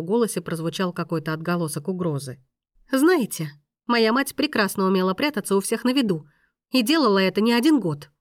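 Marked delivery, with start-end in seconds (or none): 2.9-8.1 heated argument. Acted. Agitated woman argues with maestro.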